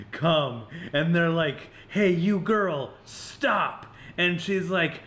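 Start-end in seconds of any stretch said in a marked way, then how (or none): 1.9-3.9 higher, slow mock police command; imitated cop order. Cops calling to the girl, imitated command. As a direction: give a drawn-out mock order to halt.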